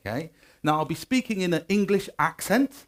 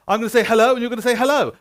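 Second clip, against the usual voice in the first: tag; 6 semitones higher, 6 dB louder, faster than usual. Real, not acted. Rehearsing audience call and response.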